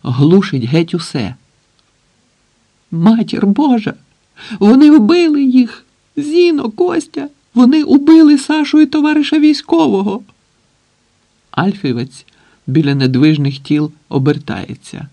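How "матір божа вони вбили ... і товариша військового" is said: much higher, loud panicked wailing; hysterical scream. A narrator's reading. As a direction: shriek it out in horror at the bodies. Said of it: "істеричний крик". (істеричний, високий крик)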